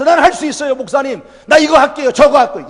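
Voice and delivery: cheerful mock volunteer; eager believer. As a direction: act out a willing believer.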